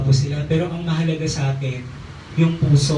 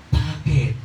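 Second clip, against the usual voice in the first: mild sudden sweetness. Retold or imitated. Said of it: "Biglang bumait".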